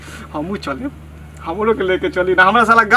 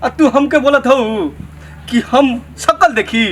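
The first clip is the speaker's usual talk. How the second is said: raised, indignant scolding; offended outburst; 3 semitones higher than usual. Acted. Villager insulted about his looks threatens sister-in-law, indignant. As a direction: hit back with wounded pride.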